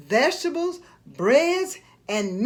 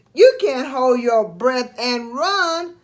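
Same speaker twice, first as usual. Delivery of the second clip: cry; 4 dB louder than usual. Acted. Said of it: "Marty cried".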